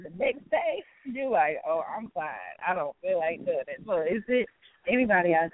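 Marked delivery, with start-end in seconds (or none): 1.7-3.8 mildly worn-out, slightly subdued imitation; acted tiredness. Host imitating an artist on a tired day, mildly weary. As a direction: play someone lightly drained and reluctant. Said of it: "you just be tired".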